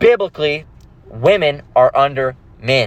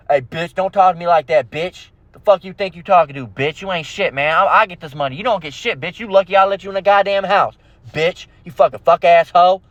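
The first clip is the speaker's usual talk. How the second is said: mock aggressive tirade; abusive boyfriend. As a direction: berate her as the rough boyfriend, half in earnest. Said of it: "Black Eye Bill".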